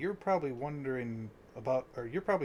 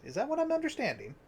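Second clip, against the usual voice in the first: incredulous; 12 semitones higher, faster than usual. Acted. Incredulous question about eating ears.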